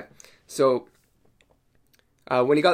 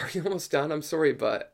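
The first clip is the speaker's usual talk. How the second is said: softer, tentative polite question; polite, apologetic; 3 semitones higher, 4 dB quieter, faster than usual. Retold or imitated. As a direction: ask meekly, excusing yourself. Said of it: "I asked him politely".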